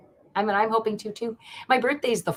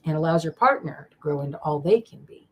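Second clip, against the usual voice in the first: usual speaking voice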